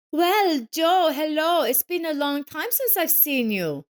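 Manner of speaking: high, loud, mocking ex-wife voice; sneering smirk. A narrator's reading. Ex-wife taunting Joseph in the parking lot, sneering. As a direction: look down on him with a smirk. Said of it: "with a sneering smirk".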